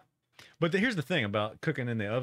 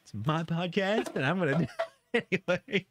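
mock stubborn self; 7 semitones higher than usual. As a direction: play it like a spoiled kid. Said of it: "And I said".

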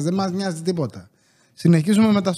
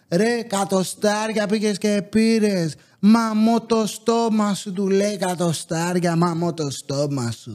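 slow, drawn-out cocky schoolboy taunt; lightly voiced streetwise kid, dragging every word; mock tough kid; slower than usual. Schoolboy in the park mocks his friend's cigarette, slow and cocky.

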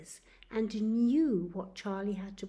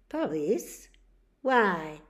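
louder startled question; 9 dB louder, slower than usual. Acted. Charlie reacts to the police news, louder and startled. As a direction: jolt at the word.

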